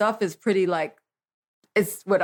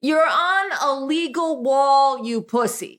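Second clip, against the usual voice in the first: high, slow, laughing mock scold; incredulous laughing rant; 5 semitones higher, slower than usual. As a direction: scoff at the scared taggers through laughter. Mocking scared graffiti kids.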